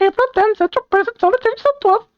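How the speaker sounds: very high squeaky announcement; silly caption read. Pretend. Player reads date and place caption, silly very high voice. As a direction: read it way up in falsetto. Reading scene caption in put-on voice.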